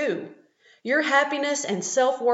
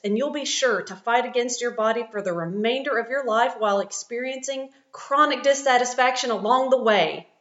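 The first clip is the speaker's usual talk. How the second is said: overly enthusiastic infomercial; 3 semitones higher than usual. Acted. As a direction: sell it like a cheesy TV ad. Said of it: "Cue the overly enthusiastic infomercial voice".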